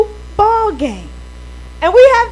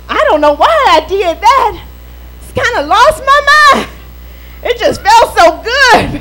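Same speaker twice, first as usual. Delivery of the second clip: hammed-up excuse-making; 2 semitones higher than usual. Preacher mimics members confessing to their pastor, mock pleading. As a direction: plead a silly excuse with comic emphasis.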